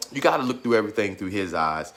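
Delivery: fighting back tears. Real, not acted. Telling viewers about faith, softly holding back tears. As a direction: let it sink low, nearly crying. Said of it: "I'm trying not to get teary-eyed".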